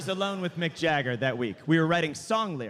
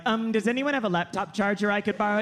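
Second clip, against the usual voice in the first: timid polite request; 2 semitones higher, faster than usual. Retold or imitated. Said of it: "that bullshit way we all have to talk".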